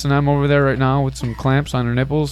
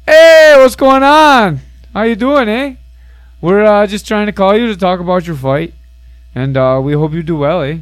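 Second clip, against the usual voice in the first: badly faked Canadian accent; 5 semitones higher, 7 dB louder than usual. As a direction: start high and loud, easing into a friendly fake Canadian. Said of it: "Are you trying to do a Canadian accent?".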